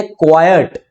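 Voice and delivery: क्वाइट said as "KWAI-yut", in two syllables; two-syllable pronunciation. Shown as a demonstration. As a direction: open क्वाइट out into क्वा-यट. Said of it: "इसकी correct pronunciation होती है".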